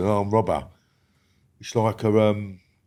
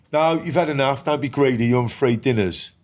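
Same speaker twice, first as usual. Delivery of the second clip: lightly voiced teacher, raised in pitch; scolding teacher; 4 semitones higher than usual. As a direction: mildly mimic a teacher telling off a child. School teacher scolding a child, retold.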